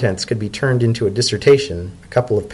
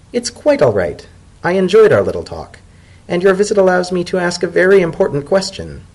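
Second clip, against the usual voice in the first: agreeable tone; 8 semitones higher, 3 dB louder than usual. A narrator's reading. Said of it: "said in an agreeable tone".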